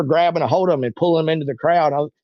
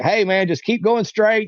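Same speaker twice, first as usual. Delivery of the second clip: raised, higher and slow reassurance; calling out steady directions over a crowd; retold yelling; 5 semitones higher, slower than usual. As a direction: shout it slowly into his ear. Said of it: "yelled in his ear".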